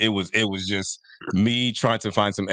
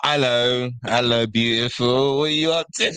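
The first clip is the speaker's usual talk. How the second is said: fake English accent; slower than usual. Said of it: "convinced her that he was from England".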